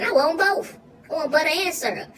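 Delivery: eager. Acted. Eagerly demanding pancakes.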